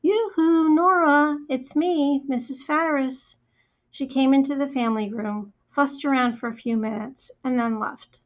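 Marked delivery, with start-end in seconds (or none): 0.0-3.4 calling out yoo-hoo. Acted. Neighbor calling out to Nora from the door, sing-song. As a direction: call out cheerily from the front door. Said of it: "opened the front door and yelled".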